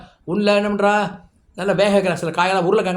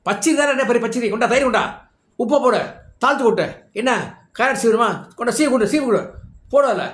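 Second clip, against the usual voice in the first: higher-pitched, brisk cooking orders; bossy commands; 5 semitones higher than usual. Retold or imitated. Maid directs Sita through making pachadi, bossy and energetic. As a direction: rattle off kitchen orders like someone in charge.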